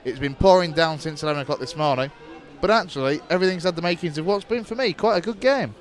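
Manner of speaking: steady radio match commentary; live play-by-play. Acted. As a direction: call the match as it unfolds.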